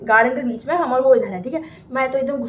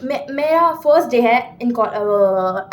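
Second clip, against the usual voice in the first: stumbling over the words; stammering; 3 dB louder, much slower than usual. Real, not acted. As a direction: falter and break off mid-line. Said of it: "अभी मैं stammer कर रही हूँ".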